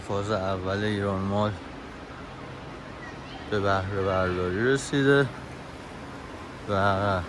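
soft, restrained narrator with long pauses; voice-over narration. Acted. Narrator listing the mall's history and facilities, soft and measured. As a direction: read the facts quietly, phrase by phrase. Reads facts about the mall.

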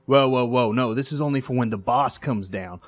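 voiced guard. Guard voiced blocking stairs.

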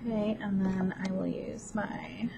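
a soft whispered aside while working. Real, not acted. Vlogger whispering an aside to viewers while crafting, whispered. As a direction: breathe it under your voice, half to yourself.

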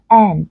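AND with a plain short e, like end; a relaxed, un-nasal e in AND. Shown as a demonstration. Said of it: "các bạn nhìn thấy đó là âm e". (AND đọc với âm e bình thường)

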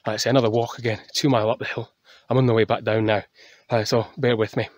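winded, walking downhill; out of breath. Real, not acted. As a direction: speak between breaths. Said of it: "sorry, I'm out of breath".

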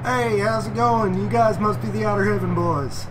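hammed-up Texas accent greeting; fake Texas accent. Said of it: "I'll do a fake Texas accent for this one".

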